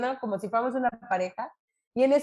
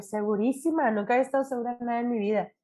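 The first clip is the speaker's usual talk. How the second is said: emphatic; faster than usual. Retold or imitated. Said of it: "Y yo".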